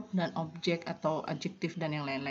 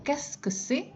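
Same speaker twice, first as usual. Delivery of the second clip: higher Qu'est-ce que c'est with a rise on c'est; repeated high model; 8 semitones higher, slower than usual. Shown as a demonstration. Teacher repeats the question for students in a higher voice. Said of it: "Saya ulang".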